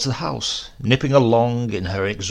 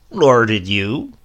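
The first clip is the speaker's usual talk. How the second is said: put-on slow, louder sly old man; sly retort; 7 dB louder, slower than usual. A narrator's reading. Silas slyly answers grandmother, slow and louder. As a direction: drawl the jibe back.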